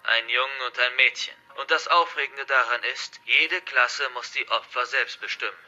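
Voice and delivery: lightly voiced hostage-taker, projected; forceful, threatening address to captives; menacing hacker villain. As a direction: declare it like a villain in control. Narrator voices the hacker's rules.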